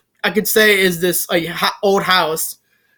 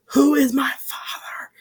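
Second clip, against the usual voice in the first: mock tearful plea; 5 semitones higher, 6 dB quieter than usual. Boy asks again, pained.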